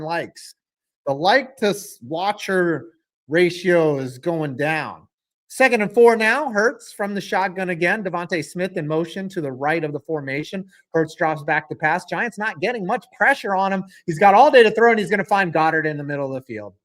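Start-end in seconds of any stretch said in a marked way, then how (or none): 5.5-16.7 raised, energetic football call; lively sportscaster delivery; live play-by-play. Real, not acted. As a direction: call the play, building as he throws.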